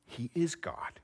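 whispered, reverent confession; hushed. Real, not acted. Preacher revealing Jesus is God, whispered. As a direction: drop to a whisper for the big truth.

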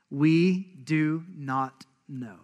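very slow, painfully dragged out. Retold or imitated. Religious leaders reluctantly answering Jesus, slow and pained. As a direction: squeeze each word out reluctantly. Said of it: "saying that very slowly and painfully".

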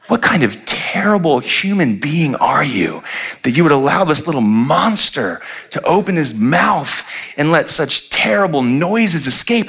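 slow, mildly haughty voice of a scolding lady; lightly voiced judgmental stranger; a hint of a disgusted older woman; disapproving old woman. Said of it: "the most evil look ever".

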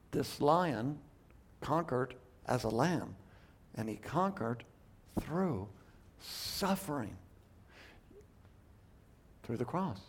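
hushed solemn reverence. Real, not acted. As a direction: let it fall quiet and reverent. Solemn climax on suffering.

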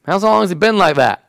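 calmly asking, unhurried; steady and gentle; calm question. Acted. Jesus calmly asking the frantic father. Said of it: "in a really calm manner".

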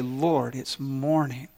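tired late riser groaning at God; groggy groan. Retold or imitated. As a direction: drag it out like you hate mornings. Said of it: "those who say".

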